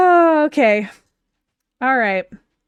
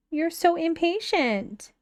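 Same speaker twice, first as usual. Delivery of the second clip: fond puppy talk; 4 semitones higher, 5 dB quieter, slower than usual. Real, not acted. Talking fondly to her puppy.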